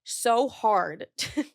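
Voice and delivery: slow, drawn-out mock complaint; mock whiny influencer. Mocking herself as a whiny influencer, slow whine. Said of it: "so funny to be like".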